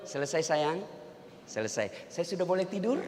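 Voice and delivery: soft, timid, asking permission; a tired husband creeping off to bed, hushed; meek quiet husband. Acted. Husband asks nagging wife for permission to sleep, meek and hushed.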